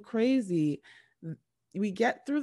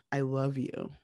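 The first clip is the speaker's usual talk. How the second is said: barely voiced, breathy mouthing; mouthed whisper; 5 semitones lower, 4 dB quieter than usual. Groom mouths it to her during the ceremony, whispered. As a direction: silently mouth it across the room. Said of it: "Chad mouths to her".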